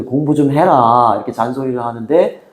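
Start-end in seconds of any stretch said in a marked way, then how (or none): 0.0-1.1 mom nagging. Retold or imitated. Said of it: "엄마가 잔소리".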